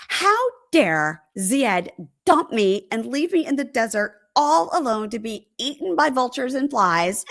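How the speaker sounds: mildly hammed-up indignation; theatrical "how dare he" complaint; dramatic outrage. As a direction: imitate a melodramatic jilted woman. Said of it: "So dramatic".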